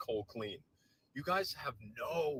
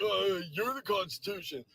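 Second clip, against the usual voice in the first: mock flustered fan; 5 semitones higher than usual. Mocking flustered interviewee.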